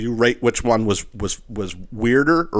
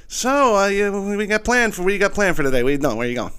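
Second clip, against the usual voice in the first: mock polite; 10 semitones higher than usual. Mock-polite morning-after questions.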